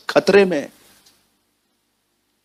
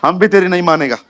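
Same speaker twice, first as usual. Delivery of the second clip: offended general; 4 semitones higher than usual. Retold or imitated. Naaman voiced, offended general.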